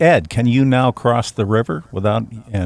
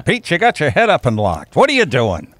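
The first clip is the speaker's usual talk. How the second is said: higher mock reprimand from dad; scolding father; 5 semitones higher than usual. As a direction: lightly imitate an exasperated father. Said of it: "He goes".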